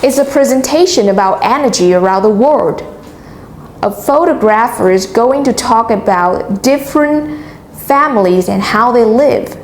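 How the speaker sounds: teacher's model reading, stressing key words like presentation, energy, families; key words such as energy, different, families made prominent; stress on key syllables. Shown as a demonstration. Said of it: "Notice how I stress on the highlighted".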